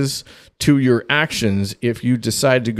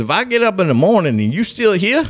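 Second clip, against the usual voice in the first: "you still here" raised into a long warning rise; loaded inflection; 7 semitones higher, faster than usual. Retold or imitated. Girlfriend's dad warns the boyfriend about morning, rising inflection on "here". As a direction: imitate a dad's warning, pitch climbing up to "here". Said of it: "'cause he had that inflection".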